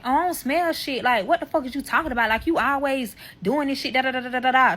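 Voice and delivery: high, fast mock of a defensive man; hammed-up gaslighting boyfriend. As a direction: mimic him brushing her off. Boyfriend voiced, mocked as gaslighting.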